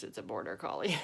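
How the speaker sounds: plain reading voice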